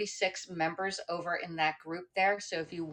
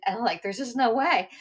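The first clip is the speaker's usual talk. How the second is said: crying; 6 semitones higher, 6 dB louder than usual. Real, not acted. Retelling a night of crying.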